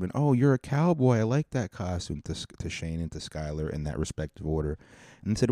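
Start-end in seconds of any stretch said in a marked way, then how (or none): 0.1-2.2 higher-pitched, mock-gushing candy giver; gushing praise. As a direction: coo over a kid's costume, lightly imitated. Gushing over another kid's costume.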